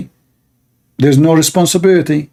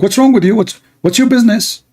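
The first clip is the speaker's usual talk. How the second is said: higher-pitched imitated indignation; mock angry retort; 7 semitones higher than usual. Saudi man rebuffing a stranger's warning, mock angry. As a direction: play the offended man telling someone off. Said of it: "He got angry from me".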